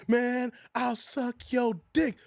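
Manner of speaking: slow, drawn-out offer; mock come-on, stretched long; lightly voiced slow proposition; slow movie quote. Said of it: "What, man? I said".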